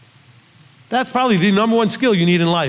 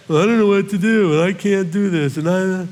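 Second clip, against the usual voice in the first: mock helpless caller; 2 semitones higher than usual. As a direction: lightly play the caller who is stuck and complaining. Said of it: "We get calls like that".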